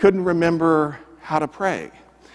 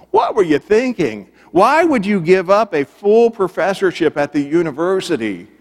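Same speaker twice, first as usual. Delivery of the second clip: higher, louder retold disbelief; incredulous questioning; 5 semitones higher, 5 dB louder than usual. News reporter to professor turned pastor, incredulous. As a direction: question him as an astonished reporter would. Reporter challenges his career change.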